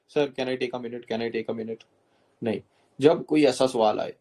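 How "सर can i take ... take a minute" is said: slow, softer mock plea for more time; overused stalling. Shown as a demonstration. Coach mocks a candidate who asks for time after every question, slow and soft. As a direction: drag it out like a nervous stall. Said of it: "ये भी नहीं करना कि हर सवाल के बाद बोलना कि".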